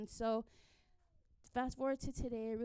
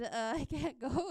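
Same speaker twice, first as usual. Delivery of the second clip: laughing refusal; 4 semitones higher, 4 dB louder than usual. Retold or imitated. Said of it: "I was like".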